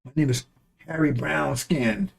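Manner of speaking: slow, soft, put-on naive voice; mocking voice. Mocking someone who sides with the enemy, slow and soft. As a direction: drag out the silly name. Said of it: "Why you right here talking?".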